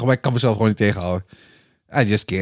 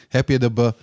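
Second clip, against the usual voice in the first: imitating stutter; 2 semitones lower than usual. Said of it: "Hij begint".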